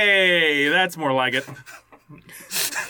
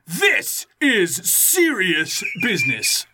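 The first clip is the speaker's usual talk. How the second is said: sensei voice; much slower than usual. Acted. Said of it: "read that like the, uh, sensei".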